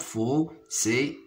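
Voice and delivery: "Fossé" with a gap after fo; syllable by syllable. Shown as a demonstration. Teacher counting syllables for pupils, "Fossé" split in two. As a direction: separate fo from ssé in "Fossé". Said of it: "se compose de deux syllabes".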